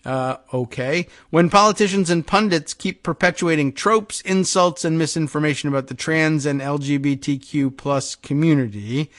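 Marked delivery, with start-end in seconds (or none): 1.3-9.1 measured, emphatic article reading; projected radio news delivery. Acted. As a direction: read the report out with deliberate weight. Reads the quoted statement aloud.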